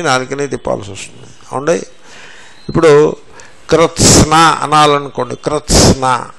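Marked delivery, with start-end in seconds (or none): 3.7-4.3 కృత్స్న with t, s and n all sounded; కృత్స్న pronounced as krt-sna; careful cluster. Shown as a demonstration. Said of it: "తకార సకార నకారములు". 5.4-6.3 కృత్స్న with t, s and n all sounded; careful cluster. Shown as a demonstration. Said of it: "తకార సకార నకారములు".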